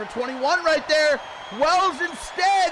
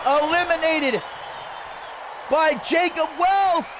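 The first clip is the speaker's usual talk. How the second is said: play-by-play. Real, not acted. Live play-by-play call.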